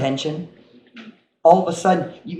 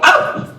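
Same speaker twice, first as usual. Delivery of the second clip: short, loud mock ow; acted pain cry; 5 dB louder than usual. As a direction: play a sudden prick of pain. Acts out reaction to prick.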